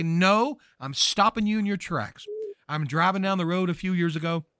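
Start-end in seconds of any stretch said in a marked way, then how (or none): 0.0-2.3 louder, higher rebuke of the devil; rebuking shout. Pretend. Believer shouting at the devil, firm rebuke. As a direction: command him to stop. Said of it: "we shout and we sling our hand".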